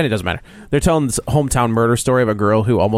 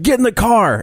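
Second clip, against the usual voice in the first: retold van man's order, pitched higher; creepy kidnapper demand; 8 semitones higher than usual. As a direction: bark it like the lurking kidnapper, half mocking. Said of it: "and he's like".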